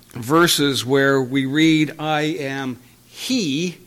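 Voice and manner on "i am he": slow quote. Shown as a demonstration. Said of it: "with "he" in italics".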